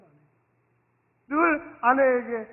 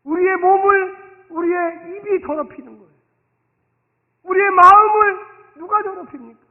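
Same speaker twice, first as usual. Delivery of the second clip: full-force preaching; 3 semitones higher, 9 dB louder than usual. Acted. Pastor urging the congregation, preaching at full force. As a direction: drive every phrase home from the pulpit.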